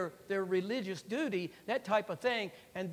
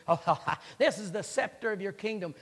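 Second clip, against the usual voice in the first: mock laugh into a taunt; imitating mockers taunting a captive; mocking jeer; 4 dB louder than usual. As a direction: jeer it with a fake ha-ha. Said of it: "They were mocking him 'cause".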